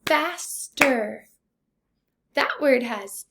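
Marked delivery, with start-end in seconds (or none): 0.0-1.3 "Faster" slowly in two beats; syllable by syllable. Shown as a demonstration. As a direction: sound out "Faster" as fas, ter. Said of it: "tap out the syllables".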